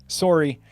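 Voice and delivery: "sorry" said as SORE-ee; Canadian sorry. Shown as a demonstration. Recalling what was heard in Canada, "sorry" as SORE-ee. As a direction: give "sorry" a round, long O as in sore. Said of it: "I did hear a lot of sorries".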